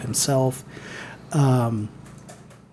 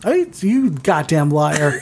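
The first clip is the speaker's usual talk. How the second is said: slow laughing mock outrage; much slower than usual. Real, not acted. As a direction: call her out through laughter. Playful accusation while laughing.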